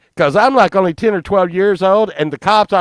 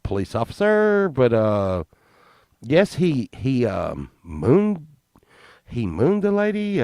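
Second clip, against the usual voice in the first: halting, hesitant imitation of a witness; mock reluctant witness; 4 dB quieter than usual. Witnesses sheepishly tell the police officer about mooning, reluctantly. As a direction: hem and haw through it, trailing softer.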